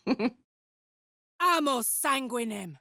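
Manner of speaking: laughing incantation. Acted. Casting a blood spell.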